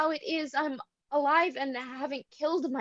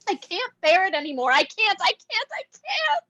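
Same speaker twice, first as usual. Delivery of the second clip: despairing; 4 semitones higher, 3 dB louder than usual. Acted. Irina breaks down in despair.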